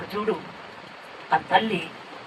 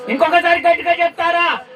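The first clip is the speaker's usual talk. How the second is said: urging shout; 4 semitones higher, 4 dB louder than usual. Real, not acted. Urging congregation to praise loudly.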